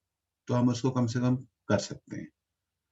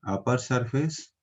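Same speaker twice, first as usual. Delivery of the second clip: slow read-out; 2 semitones higher, slower than usual. Shown as a demonstration. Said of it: "इसको ऐसे पढ़ना है".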